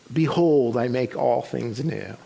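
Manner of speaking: lightly voiced divine word, softening and slowing; God's voice. Woman driving hears God speak to her, lightly voiced. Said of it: "she hears".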